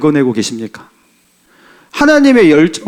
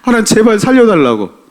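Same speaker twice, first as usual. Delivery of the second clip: retold tearful plea; 6 semitones higher, 4 dB louder than usual. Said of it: "울면서 기도했어요".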